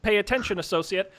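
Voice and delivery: measured, pompous official pronouncement; slow official wizard. Acted. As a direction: speak slowly like a stern official. Official wizard addressing guard.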